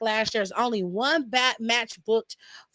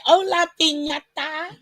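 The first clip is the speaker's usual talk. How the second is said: slow, higher mocking cartoon kid voice; Riley from the Boondocks; 6 semitones higher, slower than usual. Laughing while redoing the Boondocks line, slow high mocking kid. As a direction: drag "Hola" out, laughing at him. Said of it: "He said".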